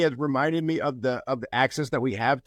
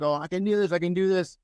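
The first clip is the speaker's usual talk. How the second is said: player pushing on; 5 semitones higher than usual. Retold or imitated. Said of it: "He's like".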